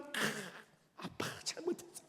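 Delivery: hushed, breathy coaxing plea to dad; the cunning child sweet-talking an angry father; sly wheedling child. Retold or imitated. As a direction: whisper a wheedling apology like a sly kid. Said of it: "또 여우 같은 것들은".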